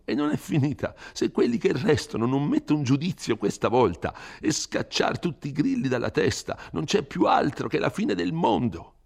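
a frightened priest scolding a rash youth; Don Abbondio, fretful. Acted.

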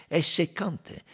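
voiced detective character. Detective pointing out a lucky break to companions, high and quick. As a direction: lift the voice high and rush the middle. Character speaks in quoted dialogue.

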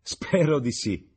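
amused. A narrator's reading. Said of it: "disse la padrona di casa ridendo".

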